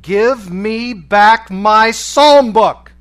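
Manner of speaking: slow, high, full-force scream. A narrator's reading. Prisoner lying back in the snow, screaming for his book. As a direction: scream each word as a desperate demand. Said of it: "and screamed".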